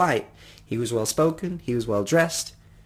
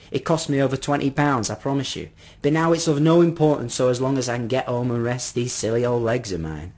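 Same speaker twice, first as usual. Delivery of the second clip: lightly voiced, earnest old gentleman; persuasive old man; 4 dB louder than usual. Old man offering his umbrella, lightly voiced and persuasive. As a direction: coax with a hint of weary old man.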